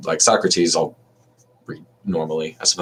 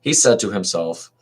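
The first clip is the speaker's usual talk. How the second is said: declaiming Socrates' defence, a touch raised; dramatic reading; 3 semitones higher than usual. Acted. Socrates arguing against Meletus before the court, dramatic reading. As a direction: read the speech as if to the jury.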